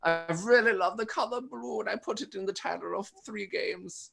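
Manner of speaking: high put-on German voice; German accent. Host giving withheld clue as designer, German accent. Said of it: "I'm just talking in a German accent".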